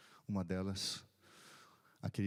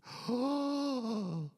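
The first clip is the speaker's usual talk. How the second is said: high, loud last gasp; dying gasp; 5 dB louder than usual. Retold or imitated. Pastor imitating the dying man's final breath, a high gasp. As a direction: let out the sudden cry of a man breathing his last. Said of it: "fez assim".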